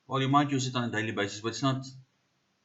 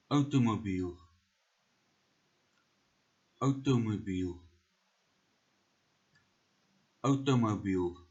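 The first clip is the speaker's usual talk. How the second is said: South African accent. Shown as a demonstration. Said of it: "We are doing this in a South African accent".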